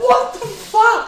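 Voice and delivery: high, drawn-out squeal of disbelief; incredulous. Real, not acted. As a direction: stretch it out in high-pitched astonishment. Reacts in disbelief to story.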